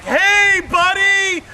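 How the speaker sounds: high and loud, friendly plea; loud high-pitched appeal to the officer; pleading protest. Retold or imitated. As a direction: beg the young cop to let it slide. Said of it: "I'm like".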